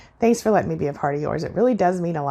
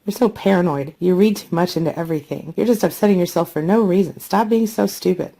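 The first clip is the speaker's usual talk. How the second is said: scolding gaslighter; 4 dB louder than usual. Acted. Acting out a gaslighting narcissist.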